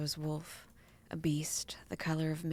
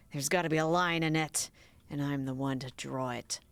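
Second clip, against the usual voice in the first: a hint of a lower, grumbling roommate; lightly voiced Pat; 3 semitones lower than usual. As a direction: push back, mildly annoyed.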